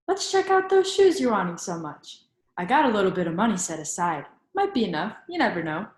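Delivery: hopeful grandma. Acted. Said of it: "Grandma says".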